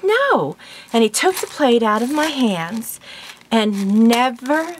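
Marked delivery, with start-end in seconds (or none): 0.0-0.6 flat refusal. Retold or imitated. Husband flatly refuses.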